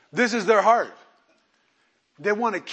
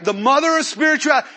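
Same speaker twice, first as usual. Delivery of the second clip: louder, fast, laughing jab; laughing mock title; 5 semitones higher, 7 dB louder, faster than usual. Real, not acted. Preacher mocking Jerusalem as the mother church, laughing. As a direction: poke fun at the grand title.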